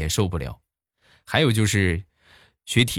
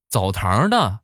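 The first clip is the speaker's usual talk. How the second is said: higher-pitched, incredulous questioning; astonished son; 5 semitones higher than usual. Retold or imitated. Son questioning his dad about the poet, astonished. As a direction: act out a boy's baffled disbelief. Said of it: "他儿子很惊讶地看着他".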